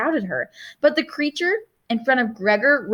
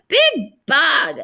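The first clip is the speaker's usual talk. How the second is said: put-on small child insisting, raised pitch; insistent toddler; 4 semitones higher, 4 dB louder than usual. A narrator's reading. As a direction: insist like a toddler demanding attention. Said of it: "she insisted".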